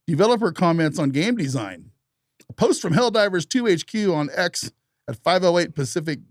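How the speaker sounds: put-on old-time radio news anchor read; 1950s newscaster. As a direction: read it like a vintage newsreel announcer. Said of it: "Why are you reading it like a nineteen fifties newscaster".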